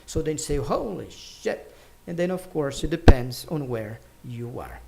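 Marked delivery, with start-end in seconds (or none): 0.6-1.7 drawn-out HOLY, mock dismay; dissatisfied. Shown as a demonstration. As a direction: stretch it out in demonstrated dissatisfaction. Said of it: "express that you are dissatisfied".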